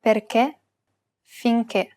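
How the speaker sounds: Perché, finché with a closed final E. Shown as a demonstration. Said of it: "pronounce it as a closed E".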